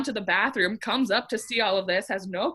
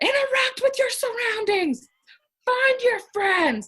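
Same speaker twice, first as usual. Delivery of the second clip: very high, play-acted screaming; 13 semitones higher, 4 dB louder than usual. Retelling how Haley yelled at the scattered group, imitating Haley screaming. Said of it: "she starts screaming".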